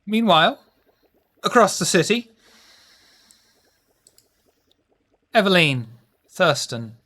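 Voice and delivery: storyteller narration voice; scene narration. A narrator's reading. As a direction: set the scene like a game master. Game master narrates scene.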